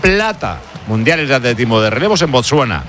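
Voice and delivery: high-pitched sports bulletin, key words stretched; news announcement. Real, not acted. Presenter breaking relay silver news to listeners, news announcement.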